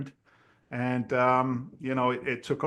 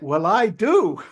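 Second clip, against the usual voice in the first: slow, higher, louder deadpan boast; teasing his friend, a slow, higher, louder boast; mock proud; 8 semitones higher, 5 dB louder, slower than usual. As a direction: land it slowly like a proud punchline. Joking reply about asking money.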